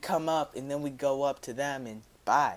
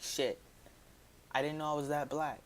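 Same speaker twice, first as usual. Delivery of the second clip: hushed aside; 9 dB quieter than usual. Retold or imitated. Inner thought, muttered aside.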